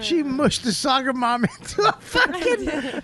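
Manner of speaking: high, drawn-out words through laughter; helpless with laughter, struggle to get it out; laughing in disbelief. Real, not acted. Comic mocking a colleague's botched German accent, laughing in disbelief.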